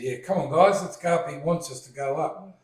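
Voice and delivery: lightly acted eager rallying of the group; retold enthusiasm, coaxing friends to come along; eager Moses. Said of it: "Moses is right into it".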